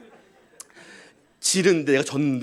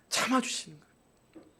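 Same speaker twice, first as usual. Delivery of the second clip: '참아주시는' almost breathed, much softer and slow; 5 semitones higher, 11 dB quieter than usual. Acted. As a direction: let '참아주시는' fall gently and softly. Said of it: "repeated phrase, soft take". ('참아주시는'을 아주 부드럽고 느리게)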